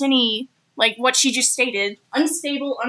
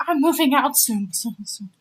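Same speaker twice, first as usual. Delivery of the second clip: mock echo, repeated words fading away; imitated echo. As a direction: fake a cave echo, fading out. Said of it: "It sounds like she's in a cave".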